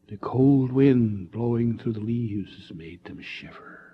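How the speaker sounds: slow, hushed tale-teller voice; eerie storytelling. Acted. Eddie spinning the scary story, slow and eerie. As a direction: draw out the chill.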